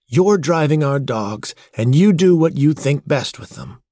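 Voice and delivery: high, emphatic backing of her brother; pointed. A narrator's reading. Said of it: "she said pointedly".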